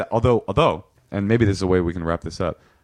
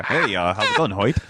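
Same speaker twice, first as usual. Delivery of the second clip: lightly voiced square white guy; Richard Pryor's white guy. Shown as a demonstration. Demonstrating an impression for the host, square white-guy voice. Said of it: "Richard Pryor's impression of a white guy".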